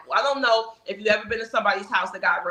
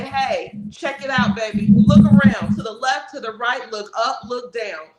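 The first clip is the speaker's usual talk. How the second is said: playful persuading voice, rising toward the end; encouraging pitch; 2 semitones higher, 3 dB louder than usual. Pretend. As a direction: win them over, friendly and upbeat. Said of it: "We're gonna say".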